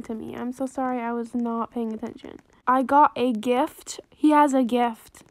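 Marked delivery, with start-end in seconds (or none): 2.7-5.2 louder and slow, buzzing with surprise; loud thrilled announcement. Real, not acted. Player given a surprise gift, loud slow excited announcement. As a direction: announce it like you can't believe your luck.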